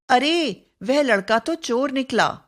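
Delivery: a light demo of surprise; surprised. Shown as a demonstration. Teacher voicing a surprise example to students, mock surprised. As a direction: act out the shock of finding a thief. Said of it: "विस्मय या आश्चर्य सूचक".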